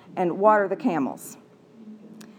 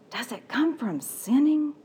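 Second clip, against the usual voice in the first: curious servant; 4 semitones higher than usual. Acted. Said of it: "here's what I think it might sound like".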